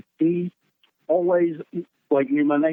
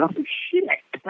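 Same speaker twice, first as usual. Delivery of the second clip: retold surprise; 10 semitones higher than usual. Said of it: "I went".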